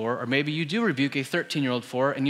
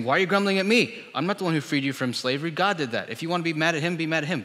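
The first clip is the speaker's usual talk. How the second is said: higher-pitched, mildly indignant protest; exasperated Moses; 4 semitones higher, 3 dB louder, faster than usual. Acted. Moses protesting to the grumbling people, exasperated. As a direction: push back at the accusers, mildly exasperated. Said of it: "Moses saying".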